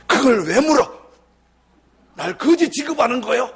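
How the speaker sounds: angry shout. Retold or imitated. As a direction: bark it back at the pastor. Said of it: "막 소리를 지르는 거예요".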